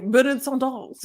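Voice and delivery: lightly put-on French accent. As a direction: say it as the French would. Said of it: "Even the French were like".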